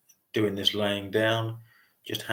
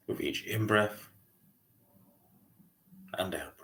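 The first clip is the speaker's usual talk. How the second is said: calm meditation guide, long pauses between phrases; unhurried mindfulness voice with spacious pauses; guided meditation. Real, not acted. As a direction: gently lead a breathing meditation, leaving lots of silence. Leads a body scan meditation.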